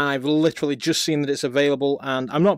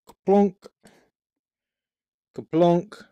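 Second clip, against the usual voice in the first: imitated clunk of a part dropping in; playful kaplunk; 4 semitones higher, slower than usual. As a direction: say it as a sound effect for slotting parts. Voices parts dropping into place.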